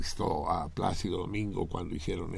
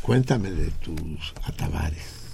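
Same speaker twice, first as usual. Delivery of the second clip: imitating the linguist; 5 semitones lower, slower than usual.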